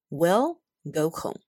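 slow "We'll" with a clear final L; slow model reading. Shown as a demonstration. Teacher drilling the contraction "We'll". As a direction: drill it slowly. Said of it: "就会变成".

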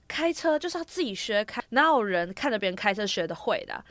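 understated cross mother; mildly annoyed mom. Retold or imitated. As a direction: retell mom's complaint with mild heat. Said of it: "我妈就火大".

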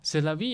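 C'est la vie said clearly in French, falling on vie; French phrase. Shown as a demonstration. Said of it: "也要教我们一句法文".

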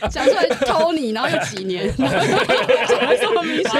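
loud laughing while talking; cracking up mid-sentence; laughing loudly. Real, not acted. Host cracking up at slip.

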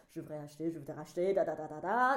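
rote practice, trailing into da-da-da; imitating nervous rote rehearsal; repetitive rehearsing. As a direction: repeat it like a memorised drill. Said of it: "我就一直反复这个句子".

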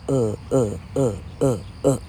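"呃" five times as a low, separate "uh"; unstressed schwa mnemonic. Shown as a demonstration. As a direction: recite each "呃" as the same low schwa. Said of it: "根据它的口诀念".

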